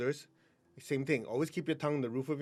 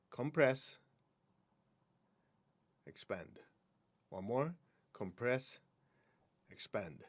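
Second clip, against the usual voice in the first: guided exercise. Acted. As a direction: breathe the words out gently. Leads the cloud exercise.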